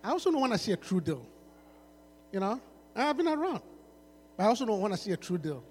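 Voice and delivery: low, soft, mock seductive lines; smooth-talking rapper.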